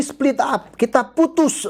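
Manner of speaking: says it through a laugh, high. Real, not acted. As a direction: laugh out the words in disbelief. Reacting to breakup message.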